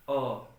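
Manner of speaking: short neutral vowel अ, said alone and held; vowel a demo. Shown as a demonstration. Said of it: "फिर हम बोलना शुरू कर दिए".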